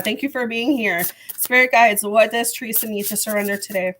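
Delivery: hoarse, strained throat; losing voice. Real, not acted. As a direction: voice going, rough and tired. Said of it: "I'm losing my voice".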